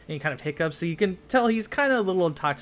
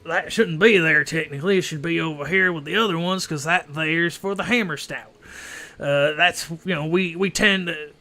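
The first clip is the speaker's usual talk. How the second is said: louder, boastful brewer voice; proud dwarf brewer; 4 dB louder than usual. Acted. Ghost brewer boasting to the inspector about his ales, lightly voiced. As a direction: puff up with pride in the brewery. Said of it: "He goes".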